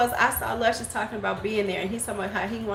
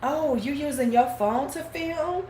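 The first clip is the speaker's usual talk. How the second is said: snooty mock quote; 5 semitones higher than usual. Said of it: "she was like".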